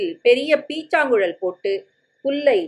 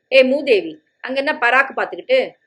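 scolding shout; 3 semitones higher, 4 dB louder than usual. Acted. Father scolds daydreaming daughter.

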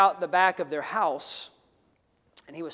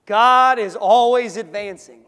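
slow declaration; 3 semitones higher, 11 dB louder, slower than usual. Shown as a demonstration. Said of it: "Say that with me, church".

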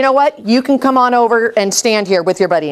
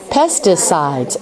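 slow chunked reading; 3 semitones lower, slower than usual. Shown as a demonstration. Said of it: "Say it again now".

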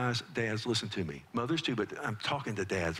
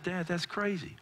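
put-on scoffing kid; 7 semitones higher than usual. Son scoffing at father.

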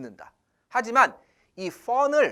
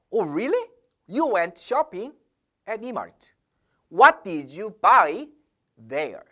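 nosy question; much slower than usual. Shown as a demonstration. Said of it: "이런 식으로 물어본 순간".

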